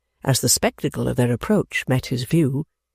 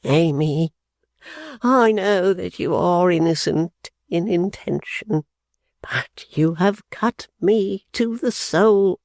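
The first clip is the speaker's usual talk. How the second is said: mild sob; 4 semitones higher, slower than usual. Acted. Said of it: "sobbed out".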